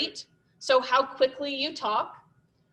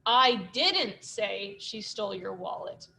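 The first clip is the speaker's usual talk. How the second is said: "didn't" punched, sentence said slowly; stress on didn't; 3 semitones lower, slower than usual. Shown as a demonstration. Teacher showing the stress game, weight on "didn't". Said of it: "stressing all the different words".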